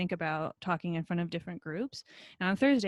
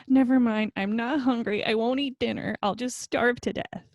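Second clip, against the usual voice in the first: put-on sulky child; 4 semitones higher, 5 dB louder than usual. Five-year-old's dramatic refusal.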